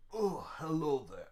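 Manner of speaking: lightly voiced old man greeting; a hint of a creaky elder, friendly; old person voice. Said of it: "my old person voice".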